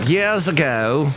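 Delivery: slow, drawn-out grand phrase; lightly hammed-up speech voice; mock oratory. Host finishing the co-host's mock speech, mock-grand.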